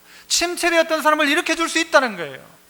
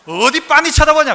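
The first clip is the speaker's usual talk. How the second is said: put-on louder rebuke at a staring child; a parent's mock sharp reproach, louder; mock scolding parent; 5 dB louder than usual. Parent scolding child for staring back, mock angry. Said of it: "고개 들어 딱 보면 뭐라고 해요?".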